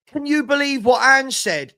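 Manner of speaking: high, loud hammed-up clickbait shout; mocking a fake-outraged YouTuber. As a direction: parody an overexcited YouTuber thumbnail. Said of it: "Thumbnails like this".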